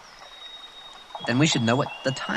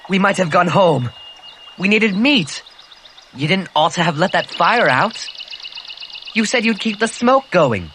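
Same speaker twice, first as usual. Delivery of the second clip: angry accusation; 4 semitones higher than usual. Acted. Ralph reproaching Jack for letting the fire out, angry. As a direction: confront him, voice rising.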